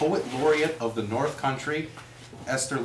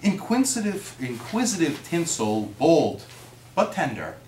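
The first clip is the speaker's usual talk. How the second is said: poem reading. Acted. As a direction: lively read children's poem. Reads a children's poem.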